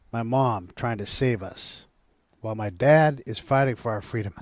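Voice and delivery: reading aloud, trying not to cry; choking up. Real, not acted. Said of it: "I told you I was gonna lose it".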